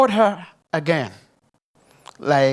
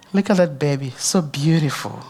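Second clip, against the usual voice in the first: usual speaking voice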